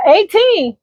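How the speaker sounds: high, disbelieving question; mock-astonished mother; incredulous echo. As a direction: repeat it as if you can't believe it. Reacting to son's boast.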